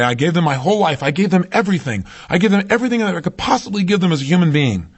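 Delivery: a touch of wounded insistence; mildly aggrieved partner. Retold or imitated. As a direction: protest all you gave, pitch climbing.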